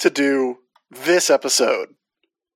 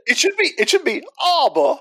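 high, hammed-up English accent; mock English accent; 9 semitones higher than usual. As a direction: play the posh English mocker. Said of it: "That was an English accent".

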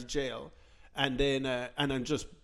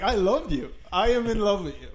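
retold flirting; 5 semitones higher than usual. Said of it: "who I start flirting with".

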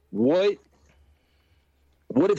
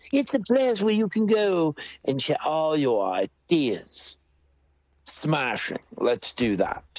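put-on posh English accent; 5 semitones higher than usual. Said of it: "that's probably a little too posh".

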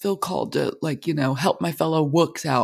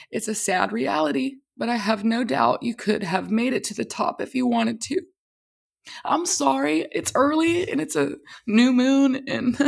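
higher, choked up while reading a friend's words; fighting back tears, voice cracking; voice breaking with emotion; 6 semitones higher than usual. Real, not acted. Veteran reading her fellow Marine's message, tearfully. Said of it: "I'm emotional".

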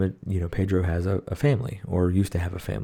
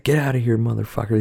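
yelled quote; 4 semitones higher, 4 dB louder than usual. Retold or imitated. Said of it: "And he's like".

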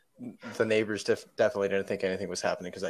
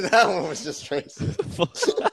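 laughing mock outrage; 8 semitones higher, much slower than usual. Real, not acted.

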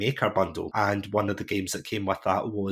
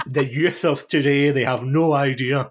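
raised, louder mock complaint about the young; a light, hammed-up old-timer rant; mock grumpy elder; 4 semitones higher, 6 dB louder than usual. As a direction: grumble loudly like a playful old-timer. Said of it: "I'm yelling at kids to get off my lawn".

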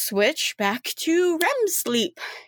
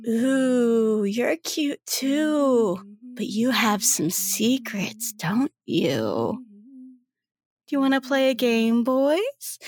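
seductive woman; 2 semitones higher than usual. Acted. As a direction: draw them into her game, flirting.

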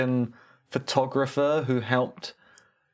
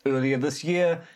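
deliberate newsreader lilt with lifted phrases; mock news read; 4 semitones higher than usual. Co-host presenting a silly local story, mock news read.

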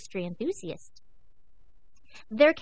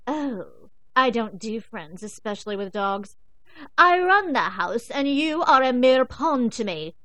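threatening queen cat; 3 semitones higher, 9 dB louder than usual. Acted. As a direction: lord it over the pup, loud and slow. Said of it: "she groaned".

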